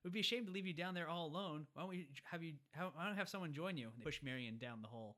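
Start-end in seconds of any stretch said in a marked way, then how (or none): 0.0-3.9 higher, lightly voiced mocking thanks; hammed-up sarcastic farewell; gloating villain. Villain thanking Indy for the ark, gloating. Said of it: "he's like".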